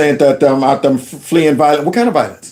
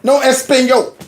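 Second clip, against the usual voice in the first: slow, higher mocking No Espanol; 6 semitones higher, slower than usual. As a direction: sneer it out slowly. Mocking Spanish chanting protesters.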